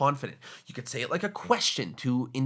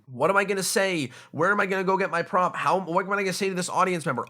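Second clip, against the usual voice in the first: faster, higher rushed worrying; nervous inner thoughts; 4 semitones higher, faster than usual. Retold or imitated. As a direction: rattle off the worries quickly, pitched up. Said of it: "all of that brain power to".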